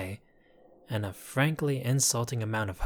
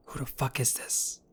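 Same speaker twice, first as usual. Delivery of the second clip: whispered, shocked aside to a henchman; hushed aside; 3 semitones higher, 4 dB quieter than usual. Acted. Kidnapper whispering to Giacomo, shocked aside. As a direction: hiss it so the captive can't hear. Realizes wrong person kidnapped.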